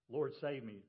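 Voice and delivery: urgent shout for rescue; mock cry for help. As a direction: call out like a sinking man. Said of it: "he cries out".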